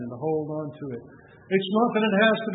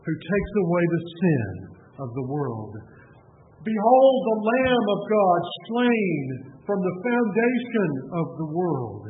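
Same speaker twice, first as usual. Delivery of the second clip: fervent pulpit delivery; preaching. Acted. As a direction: preach it out, slowing on key words. Continues the sermon's climax.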